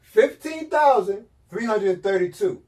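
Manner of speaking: number spelled out slowly and firmly; slow deliberate repeat for emphasis; slow emphatic repeat. Real, not acted. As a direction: hammer each part of the number home. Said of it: "I'ma say it again".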